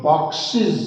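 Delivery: बॉक्सेस as "box-eez", final s voiced as z; ending said as -iz. Shown as a demonstration. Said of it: "तो उसका हम लोग".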